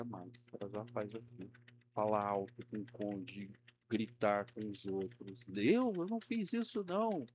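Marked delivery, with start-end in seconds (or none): 5.5-7.3 mock defensive denial. Acting denial of someone blind to fault.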